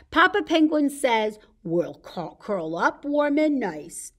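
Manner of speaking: measured, lilting picture-book narration; story reading to children. A narrator's reading. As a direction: read each rhyme out clearly for toddlers. Reads a picture book to toddlers.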